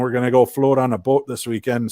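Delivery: Minnesotan long O in GO, FLOAT, BOAT; Minnesotan accent. Shown as a demonstration. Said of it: "that's the Minnesotan slip in".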